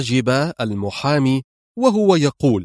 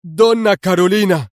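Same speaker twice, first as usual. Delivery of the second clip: a high, louder shocked cry of the name; stunned exclamation; 7 semitones higher, 4 dB louder than usual. A narrator's reading. Gomani to his lawyer after shocking phone news: stunned higher cry. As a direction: blurt it out in disbelief. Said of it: "قبل أن يهتف".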